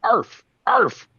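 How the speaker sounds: high squawky parrot arfs; naked parrot impression. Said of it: "here's my naked parrot impression".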